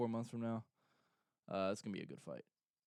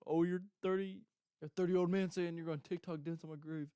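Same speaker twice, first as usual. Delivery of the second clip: mock fighter reply; 6 semitones higher, 3 dB louder than usual. Opponent's mocking reply.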